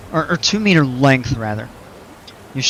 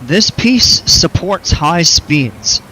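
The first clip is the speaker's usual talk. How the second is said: announcer voice; 5 semitones higher, 4 dB louder, much slower than usual. Pretend. Reading game text aloud.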